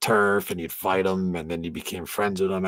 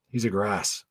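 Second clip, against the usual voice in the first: mock British. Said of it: "That's what they call, like, informers".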